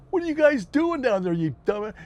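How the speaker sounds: hollering from the carrier deck; mock yell. Carrier crew yelling down at the small sailboat, mock loud. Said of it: "the guys are yelling".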